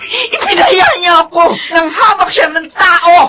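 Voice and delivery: shouting through tears; crying shout. Acted. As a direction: scold the son, voice breaking. Mother scolds in heated quarrel.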